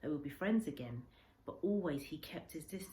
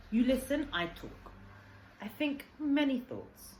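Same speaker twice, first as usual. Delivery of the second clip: higher, louder broken English, earnest; old Japanese man confiding; 5 semitones higher, 4 dB louder than usual. Acted. Old man tells the boy about lost sons, earnest and raised. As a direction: pour out a grieving father's heart. Kensuke's long speech.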